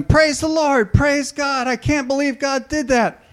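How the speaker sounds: high, loud joyful shouting; yelling praise. Retold or imitated. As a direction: shout it out like a woman overcome in church. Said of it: "a woman got up and started yelling".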